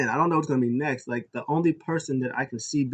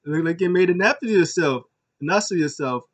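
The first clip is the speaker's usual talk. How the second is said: mocking; 5 semitones higher, 5 dB louder than usual. A rapper mocking Killian.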